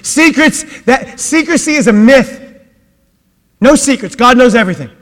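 high, loud stress on secrets; emphatic preaching. Acted. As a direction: insist there are no secrets.

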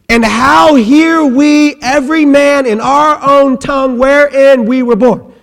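scripture reading. Acted. Preacher proclaiming verse eight to the congregation.

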